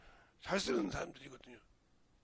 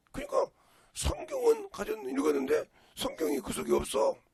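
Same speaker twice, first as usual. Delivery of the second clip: preaching emphasis; 7 dB louder than usual. Real, not acted. Preacher stresses the point.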